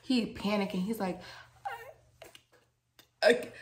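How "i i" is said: choked attempt at speech; imitating unable to talk. Storyteller imitating a panicking patient who could not talk. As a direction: imitate struggling to get words out. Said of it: "He could not talk".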